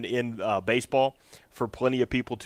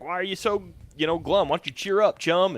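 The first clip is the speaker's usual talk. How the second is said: higher, sing-song rhyme; cute rhyming sea friend; 6 semitones higher than usual. Retold or imitated. Dad reading a kids' book, a chirpy higher sea friend. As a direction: coax a sulky fish to cheer up. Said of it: "It's like".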